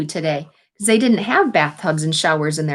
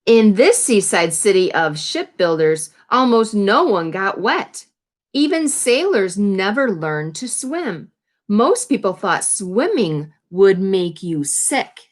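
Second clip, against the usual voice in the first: put-on reading to children. A narrator's reading. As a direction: read it out to the class. Reads picture book to class.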